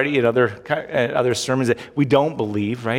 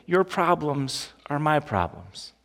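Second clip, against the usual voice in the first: slow tender reassurance; slower than usual. Acted. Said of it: "God is essentially saying here".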